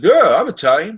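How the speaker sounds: Don Vito. Retold or imitated. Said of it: "And he said".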